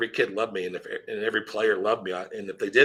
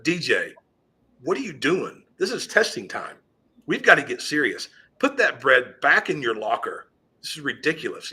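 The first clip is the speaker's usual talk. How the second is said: scolding teacher; 3 semitones higher than usual. Retold or imitated. Stressed teacher scolding a sixth grader about bread at testing time, raised voice. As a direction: lay into him for the bread, voice pitched up. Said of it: "I just lit into him".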